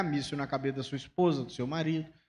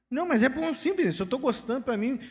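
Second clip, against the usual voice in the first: higher-pitched insistent protest; defensive reply; 7 semitones higher than usual. Retold or imitated. Pastor defending his shirt to Vinícius, higher and insistent. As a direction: push back, a little wounded. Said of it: "pastor defends his shirt".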